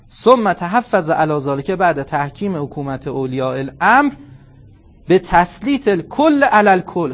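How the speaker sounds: measured, slow Arabic recitation, each word weighed. Acted. Preacher reciting the Arabic text to the congregation, slow and deliberate.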